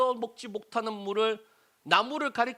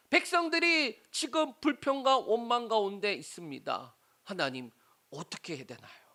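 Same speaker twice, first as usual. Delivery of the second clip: raised, pleading appeal that sinks at the end; crying out in prayer; 4 semitones higher than usual. Acted. Preacher as Moses praying to God over bitter water, pleading cry. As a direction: plead to God, starting higher, ending subdued. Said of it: "하나님 앞에 부르짖더라".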